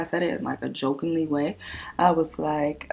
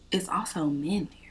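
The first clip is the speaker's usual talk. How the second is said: whisper; 5 dB quieter than usual. Retold or imitated. Whispered retort to boyfriend.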